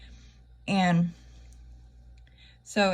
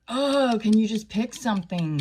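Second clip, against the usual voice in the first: exasperated; 3 semitones higher, 5 dB louder than usual. Retold or imitated. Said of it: "They're like".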